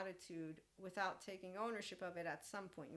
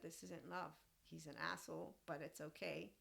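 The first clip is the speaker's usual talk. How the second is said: softer, settled and matter-of-fact; calm quiet verdict; 4 dB quieter than usual. Retold or imitated. To the tall boy who called her short, calmly and softly shrugging it off. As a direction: say it calmly, as if it costs nothing. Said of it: "I said".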